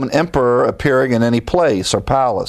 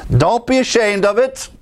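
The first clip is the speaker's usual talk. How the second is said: much higher, ringing appeal; impassioned preacher plea; fervent exhortation; 9 semitones higher than usual. Real, not acted. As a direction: urge them, fired up. Preacher exhorting at full force.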